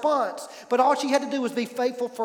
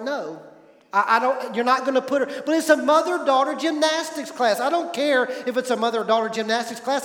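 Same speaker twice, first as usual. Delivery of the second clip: retold argument; 4 dB louder than usual. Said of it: "the fight was just going on".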